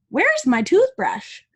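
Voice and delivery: high, slow, loud puzzled question; puzzled Bert. Acted. Bert asking Ernie for his missing toothbrush, high and slow. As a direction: ask it, baffled and slow. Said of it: "called Bert".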